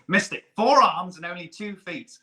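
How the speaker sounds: lightly voiced Skeksis sneer; mild mock villain scoff; quoting Skekra. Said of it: "where he says".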